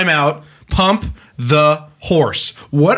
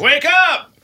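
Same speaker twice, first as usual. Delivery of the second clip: rooster crowing; 10 semitones higher than usual. Acted. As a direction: crow like a rooster. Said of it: "you're making the rooster noise".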